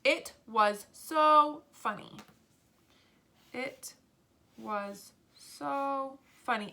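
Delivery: slow, words set apart; slow dictation. Shown as a demonstration. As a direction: dictate it slowly while writing. Dictating while writing the sentence.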